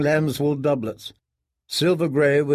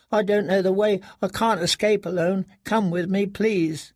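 put-on pleading girl; 7 semitones higher than usual. A narrator's reading. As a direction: beg him to take you. Kyra pleading to escape.

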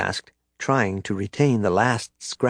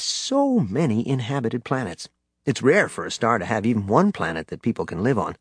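fireside storytelling. A narrator's reading. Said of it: "Han put on his best storytelling voice".

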